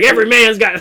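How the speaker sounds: put-on cowboy accent. Storyteller voicing New York rat, accidental cowboy accent. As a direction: slip into a hint of cowboy accent. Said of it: "I'm in the cowboy accent".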